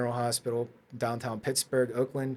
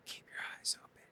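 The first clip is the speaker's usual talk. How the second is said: breathy unvoiced whisper; 16 dB quieter, faster than usual. Paramedic's yell heard as a whisper. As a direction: whisper it, no voice at all. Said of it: "I just hear him whispering".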